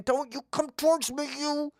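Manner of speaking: high panicky warning; mock-scared squeal. Scared of the mouse, squealing high at it. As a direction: shrink back and squeak it out.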